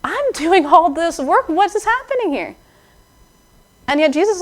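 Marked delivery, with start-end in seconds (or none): 0.0-2.5 high, slow complaining sister; mock whiny complaint, pitched up high; Martha complaining. Flustered sister complaining to Jesus, high and whiny. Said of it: "when Martha comes to complain and says".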